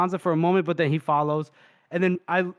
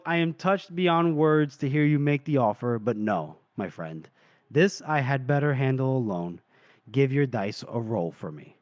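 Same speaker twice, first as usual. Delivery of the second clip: tender farewell; 4 semitones lower than usual. Retold or imitated. Retelling injured Casca's farewell to his friend, tender and low. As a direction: decline gently, letting the voice drop.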